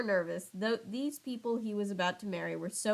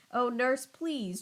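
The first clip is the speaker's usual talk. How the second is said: begging; 4 semitones higher, slower than usual. Acted. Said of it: "Juliet begged".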